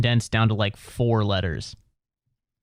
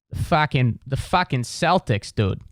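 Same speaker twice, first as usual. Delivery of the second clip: put-on Boston accent. Host slipping into his Boston comic friend's talk, mock Boston accent. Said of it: "I start talking like him".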